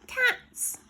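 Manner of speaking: high frightened yelp; panicked cry. Acted. Boy sees cats below.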